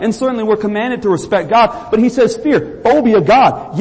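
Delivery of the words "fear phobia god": Fear, phobia God slowed and weighted; stress on fear. Shown as a demonstration. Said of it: "Yes, you should be afraid of God".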